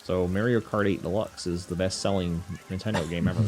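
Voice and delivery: "Mario" as MARE-ee-oh, matter-of-fact; mispronounced Mario. Retold or imitated. Imitating people who misname the game, "Mario" as MARE-ee-oh. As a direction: say "Mario" with the vowel of merry. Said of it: "Stop saying it like that".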